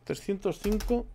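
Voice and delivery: slow, spelling out the number for writing; dictating to himself slowly; slow dictation. Real, not acted. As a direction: say it slowly while noting it down. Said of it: "que lo apunto".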